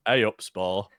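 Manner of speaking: Yorkshire accent. Shown as a demonstration. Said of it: "in the most Yorkshire accent possible".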